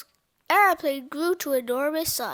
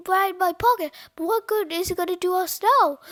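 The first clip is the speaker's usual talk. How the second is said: higher, louder worried reply; urgent, raised-voice storybook character; frantic yell; 5 semitones higher, 7 dB louder than usual. A narrator's reading. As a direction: shout it in rising desperation. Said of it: "screamed Cheeseball".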